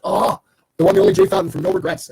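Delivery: big excited shout-out; excited hype. Real, not acted. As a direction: announce him like a star. Hyping up a viewer's arrival.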